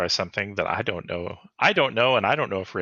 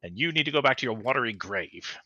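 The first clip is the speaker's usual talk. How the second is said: commanding lordly proclamation, first words shouted; imperious voice; 2 semitones higher than usual. Acted. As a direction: order the dead back like a haughty lord. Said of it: "in his most imperious voice".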